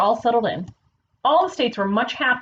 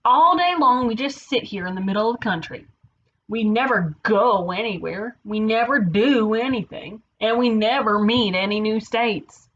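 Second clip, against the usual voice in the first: moaning. Acted. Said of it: "moaned Kansas".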